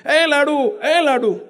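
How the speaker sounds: mild mock call to the server. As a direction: call after the passing laddu server, half-voiced. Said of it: "તમે બૂમ પાડશો". (પીરસનારને હળવી બૂમ)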